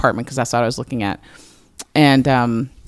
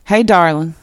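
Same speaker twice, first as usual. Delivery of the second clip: imitated Southern dad leaving a phone message, slightly higher; affectionate North Carolina dad impression; honey-dipped North Carolina accent; 3 semitones higher than usual. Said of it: "he's got a super honey dipped".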